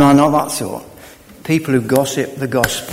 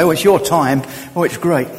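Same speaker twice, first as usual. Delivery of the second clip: mock preacher; 2 semitones higher than usual. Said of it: "any preacher can come and say".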